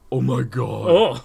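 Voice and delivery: loud, drawn-out mock chick voice; annoying chick voice. Co-host performing a fan's question, annoying chick voice. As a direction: stretch it into a lightly put-on annoying chick. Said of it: "In your best annoying chick voice".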